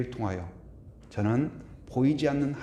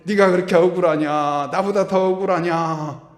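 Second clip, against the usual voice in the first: Jesus rebuking; 2 semitones higher, 8 dB louder than usual. Acted. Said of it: "예수님이 딱 나와가지고".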